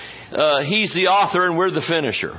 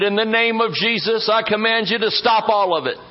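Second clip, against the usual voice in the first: commanding rebuke; 5 semitones higher than usual. Retold or imitated. Pastor rebukes the trying.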